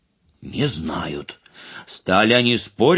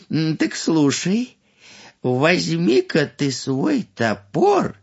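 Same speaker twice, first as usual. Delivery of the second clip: put-on higher, slow old adviser; wise old man advising; 5 semitones higher than usual. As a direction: teach patiently, showing how.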